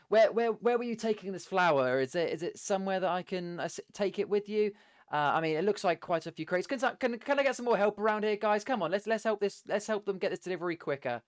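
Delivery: high, hammed-up eagerness to help; rally bystanders with a big show; large, theatrical helpfulness. Adventurer offering to help deliver the flour, theatrical. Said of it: "I'm being very, very large about this".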